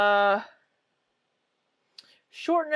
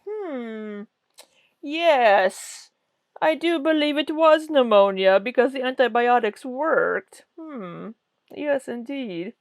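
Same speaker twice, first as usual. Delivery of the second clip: a hammed-up self-important physician, louder in the middle; mock pompous doctor; 3 semitones higher, 5 dB louder than usual. Mocking Doctor Lin as a know-it-all doctor, hammed up. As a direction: play the wise medicine woman nodding along. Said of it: "is there with the doctors going".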